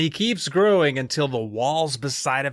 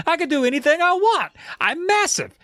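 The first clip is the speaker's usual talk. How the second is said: gloating. Retold or imitated. Giant boy gloating.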